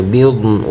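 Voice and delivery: ويقبض ends with a plain stop, no vowel, as বিয়দ; stopped ending. Shown as a demonstration. Teacher showing the pause ending of ويقبض. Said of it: "সরাসরি বিয়দ উচ্চারণ এরকম হবে".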